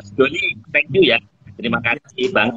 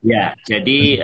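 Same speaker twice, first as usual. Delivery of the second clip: slow repeat; slower than usual. Real, not acted. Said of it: "Diulangi pelan-pelan ya".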